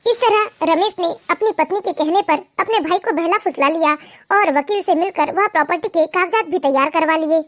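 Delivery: low, even storyteller voice reading the tale; story narration. A narrator's reading. Narrator telling listeners how Shekhar was tricked, in an even storytelling voice.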